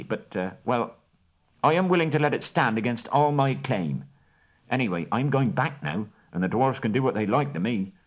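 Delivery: high, hesitant hobbit voice; stumble, then rush the end; flustered hobbit. Acted. Bilbo caught out by Bard's question, flustered.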